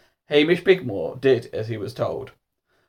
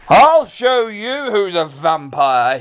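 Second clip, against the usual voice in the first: higher, slow angry threat; losing his temper; 7 semitones higher, 4 dB louder, slower than usual. Acted. Mister Majika threatens Hamish, temper lost. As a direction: burst out high, then draw out the threat. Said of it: "suddenly lost his temper".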